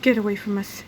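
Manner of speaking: a mother fending off a stranger; panicked yell. A narrator's reading. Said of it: "Missus Needley yelled".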